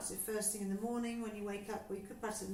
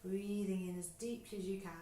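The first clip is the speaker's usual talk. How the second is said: exaggerated breath cue. Shown as a demonstration. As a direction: stretch the cue to show a big breath. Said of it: "I know it's more exaggerated than normal".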